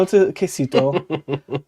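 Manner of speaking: quesito said slowly as kay-SEE-toh; slow, deliberate quesito, kay-see-toh; careful quesito. Shown as a demonstration. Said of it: "I didn't say it right".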